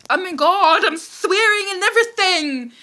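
high, laughing through the words; laughing embarrassment. Real, not acted. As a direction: giggle at your own swearing. Embarrassed at swearing.

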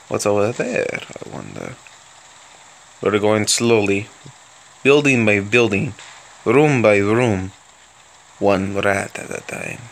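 hammed-up mock Russian accent held through the commentary. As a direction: play a cheerful Soviet tank commander with a thick Russian accent. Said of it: "I'm going to sound like this".

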